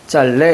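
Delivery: 짤, 네 with the ㄹ kept and no ㅂ; confirmed correct pronunciation. Shown as a demonstration. Teacher confirming the answer for students, correct pronunciation. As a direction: say 짤, then 네, keeping the ㄹ. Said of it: "이렇게 맞습니다".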